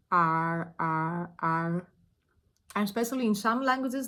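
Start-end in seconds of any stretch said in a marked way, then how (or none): 0.1-1.9 "R" held low with a slight vibration; low vibrating "R"; R sound demo. Shown as a demonstration. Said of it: "feeling like pronouncing R".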